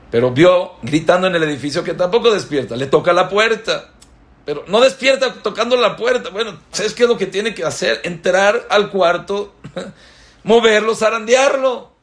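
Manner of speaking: subiendo alto y fuerte; cada vez más exaltado. Acted. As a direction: va creciendo hasta sacudirlo. Relato cada vez más intenso. (el predicador cuenta cómo el shamash entra a despertar, cada vez más alto)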